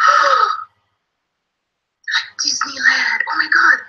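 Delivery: high mock gasp of delight; excited kids. Teacher plays kids hearing of Disneyland, thrilled. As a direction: gasp and gush like a thrilled child. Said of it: "the kids are like".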